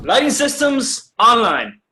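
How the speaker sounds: slow, drawn-out boast of a return; a captain making a grand entrance over the speakers; dramatic announcement. Acted. Captain crowing to the crew that the lights are back, slow and showy.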